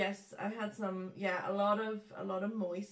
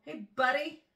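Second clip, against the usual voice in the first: American buddy; 6 semitones higher, 9 dB louder, slower than usual. Shown as a demonstration. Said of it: "That was quite American".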